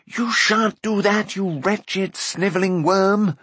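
high, slow, scornful shout; drawn-out angry call; indignant shout. A narrator's reading. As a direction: shout insults at an enemy. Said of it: "he shouted".

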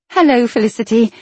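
light, friendly greeting; smiling voice. Acted. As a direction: say it with a smile. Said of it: "a smile in her voice".

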